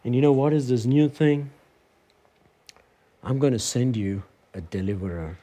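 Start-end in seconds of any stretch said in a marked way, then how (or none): 3.2-5.4 lower, softer solemn divine voice; hushed, lower voice of God. Acted. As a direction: speak as God promising a deliverer. God's promise voiced by preacher.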